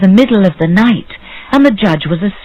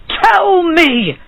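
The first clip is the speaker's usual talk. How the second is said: demanding; 11 semitones higher than usual. A narrator's reading. Bird seller demands an answer.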